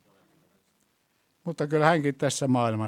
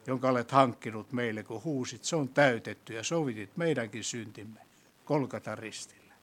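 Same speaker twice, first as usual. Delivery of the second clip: prayer. Acted. Leads closing prayer.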